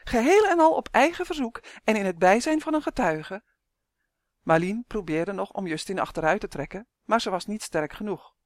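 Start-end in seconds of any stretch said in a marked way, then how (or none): 0.0-3.4 raised, louder gleeful proclamation; cheerful cry. A narrator's reading. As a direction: announce it merrily for all to hear. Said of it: "riep hij vrolijk". (vrolijk luid verkondigen)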